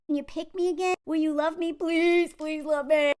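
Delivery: hammed-up needy plea; whiny parody of pleading; mock begging. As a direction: beg to be loved, exaggerated.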